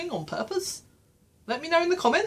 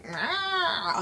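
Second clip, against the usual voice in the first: short high zombie growl; zombie roar; 10 semitones higher than usual. Pretend. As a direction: lunge with a zombie rah. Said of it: "apparently that's my zombie noise".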